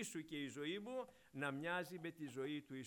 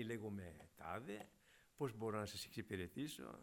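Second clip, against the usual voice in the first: polite operator; 7 semitones lower, 4 dB quieter than usual. Retold or imitated. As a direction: answer patiently like a customer service agent. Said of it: "ωραία και ευγενικά και σε περίμενε".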